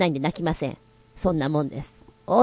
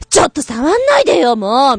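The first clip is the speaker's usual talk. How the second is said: put-on disgusted girl; 4 semitones higher, 3 dB louder than usual. Shown as a demonstration. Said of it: "みたいなね".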